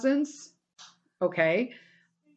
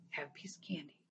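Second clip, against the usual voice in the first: breathy whispered comfort; soothing whisper; 4 semitones lower, 20 dB quieter, faster than usual. Shown as a demonstration. Offering a friend candy in crisis, hushed whisper. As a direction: whisper it like calming a scared friend. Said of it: "strike the soothing".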